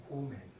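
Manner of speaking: "comen" with a long, drawn first o; long-vowel mispronunciation. Shown as a demonstration. Teacher showing class kommen with one M, long-vowel mispronunciation. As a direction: say "comen" wrongly, lengthening the o. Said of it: "se pronunciaría comen".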